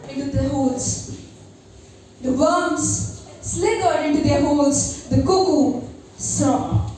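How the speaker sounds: slow, solemn spoken word; poem recitation. Acted. Recites her poem Moon.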